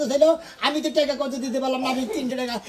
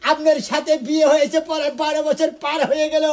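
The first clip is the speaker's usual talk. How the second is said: melodramatic folk theatre. Shown as a demonstration. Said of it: "আপনি এভাবে বলেন".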